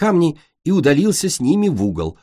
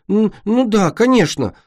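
nervous stammer; 10 semitones higher, 3 dB louder than usual. Acted. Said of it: "пробормотало Солнышко".

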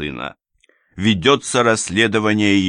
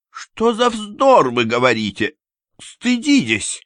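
high, slow, louder indignant cry; outraged lady; 5 dB louder, slower than usual. A narrator's reading. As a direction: shame him to his face. Анна возмущена. (возмущённый высокий выкрик)

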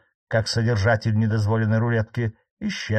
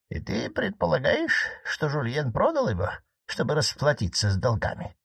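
old marquise, voiced higher, lightly ironic; 5 semitones higher than usual. Aunt teasing her nephew the judge, voiced higher. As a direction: needle the judge in a higher aunt's voice.

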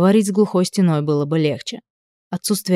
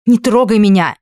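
loud, higher, recoiling shout; angry shout; 3 semitones higher, 5 dB louder than usual. A narrator's reading. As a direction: fling him off with your voice. She jerks away from him.

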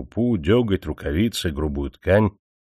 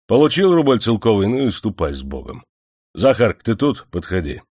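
lightly voiced stern manager; 3 semitones higher than usual. Manager dismissing Stepan.

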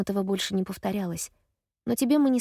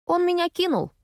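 deadpan; 11 semitones higher, 4 dB louder than usual. Acted. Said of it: "с невозмутимым видом говорю я".

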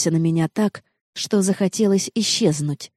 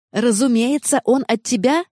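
mock-quoted message thrown back, higher; indignant shout; 6 semitones higher than usual. A narrator's reading. Jenna shouting the text back at Noa. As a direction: hurl her own words back at her in disbelief. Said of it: "закричала она".

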